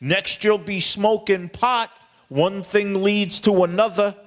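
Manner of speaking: mock motherly warning, drawn out; scolding mother.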